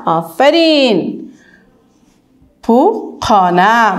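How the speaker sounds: پوکانه drawn out, slow and even; slow clear syllables. Shown as a demonstration. Teacher modelling the word پوکانه, slow and clear. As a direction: sound out پوکانه slowly for children. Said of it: "حرف کلمه".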